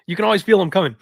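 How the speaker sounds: hoarse, raspy sick voice. Real, not acted. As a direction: rasp through a sore throat. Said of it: "the raspy voice".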